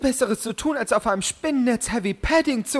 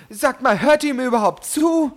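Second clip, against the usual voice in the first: indignant; 3 semitones higher, 4 dB louder than usual. Acted. Angry scolding, ignored.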